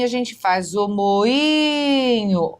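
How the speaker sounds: slow, split moinho into mo-i-nho; slow classroom syllable split; syllables pulled apart. Shown as a demonstration. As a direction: spell out moinho by its sound, syllable by syllable. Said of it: "Na palavra moinho".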